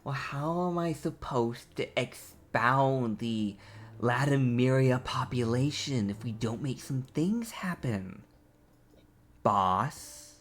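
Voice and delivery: slow, measured persuasion; leaning in with a pitch. Acted. Hysis to the boss, slow leaning-in persuasion. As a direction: lean in and reason slowly, trailing off softly. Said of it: "leans and just goes".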